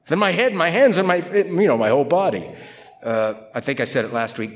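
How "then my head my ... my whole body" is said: tag eager Peter. Retold or imitated. Voicing eager Peter from last week.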